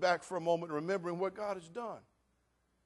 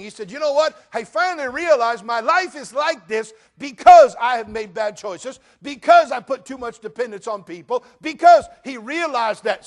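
loud, driving sermon delivery; full-force preaching; 3 semitones higher, 14 dB louder than usual. Acted. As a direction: hammer home owning your choices. Preaches about owning your choices.

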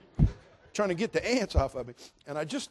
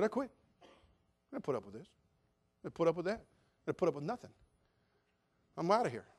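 retold muttered quitting; 6 dB quieter, faster than usual. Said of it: "walking down the street just having a fit".

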